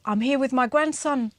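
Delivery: lightly imitated Māori grandfather's accent. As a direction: try a mild Māori accent. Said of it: "getting really good at this accent".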